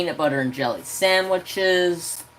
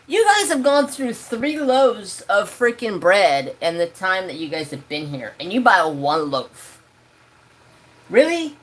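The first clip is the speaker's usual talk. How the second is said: fed-up host scolding guests over bread; exasperated rant; 3 semitones higher than usual. Retold or imitated. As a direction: scold them for buying so little. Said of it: "I said".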